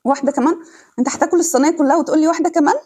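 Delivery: quick, high teasing complaint; playful scolding. Real, not acted. Teasing husband eating too much.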